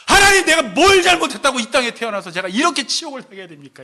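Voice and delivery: loud opening, acted bitter lament to God; mock-anguished complaint; aggrieved protest. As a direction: cry out against unfair suffering.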